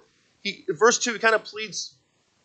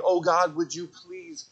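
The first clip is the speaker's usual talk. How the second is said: acted frantic pleading, building to the end; mock begging. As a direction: beg with repeated pleases, as a parody. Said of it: "He's not saying".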